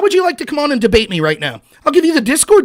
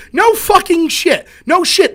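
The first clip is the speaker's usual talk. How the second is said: exasperated retort; 7 semitones higher, slower than usual. Real, not acted. Retort to objector.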